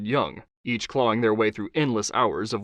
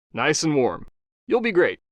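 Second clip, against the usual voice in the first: higher, upbeat producer; 4 semitones higher, 3 dB louder than usual. Acted. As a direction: check on her, a bit higher. Producer reassures.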